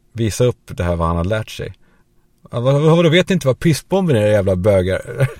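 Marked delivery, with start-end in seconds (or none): 2.5-5.3 high, loud show-off taunt; cocky hockey boy. Retold or imitated. Hockey boy shows off to classmates, loud cocky taunt. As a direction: brag to the crowd and jeer at them. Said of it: "han skulle då visa".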